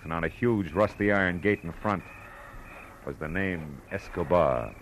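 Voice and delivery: dry, world-weary storytelling over music; detective narration. A narrator's reading. Private eye narrating the case to the listener, dry and world-weary. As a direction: narrate it like a tough private eye looking back.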